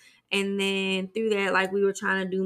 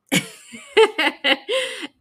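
laugh; 12 semitones higher, 6 dB louder than usual. Real, not acted. Laughs at own confession.

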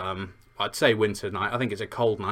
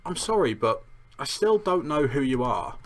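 lightly voiced puzzled boy, higher pitch; a touch higher, hesitant polite asking; Harry; 4 semitones higher than usual. Harry finally asks the giant who he is, politely puzzled. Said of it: "he finally just asks".

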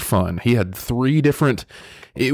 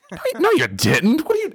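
much higher, dismissive friend voice; mock friends doubting the injury; friends brushing it off; 14 semitones higher than usual. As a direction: wave it off in a high voice.

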